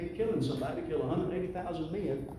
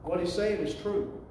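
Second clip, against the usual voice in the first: pleading prayer; 3 semitones higher than usual. Retold or imitated. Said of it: "And he said".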